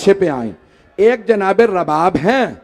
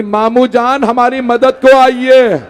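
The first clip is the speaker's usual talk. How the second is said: put-on higher, louder, slow dying boy's cry; calling out for help; 4 semitones higher, 5 dB louder, slower than usual. Wounded boy calls his uncle, loud slow plea. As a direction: call out to the uncle for help, stretched and pleading. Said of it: "उन्होंने आवाज दी".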